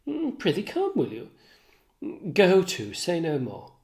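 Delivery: conversational read of two characters; lightly acted play reading; lightly voiced Shakespeare dialogue. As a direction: trade the lines as Cassio and Bianca's talk. Reading Cassio and Iago dialogue.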